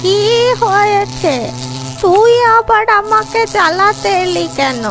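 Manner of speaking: high, loud irritated scolding; cross old woman raising her voice; annoyed old woman. Acted. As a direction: shoo a pest away, high and loud. Old woman shooing the bee away.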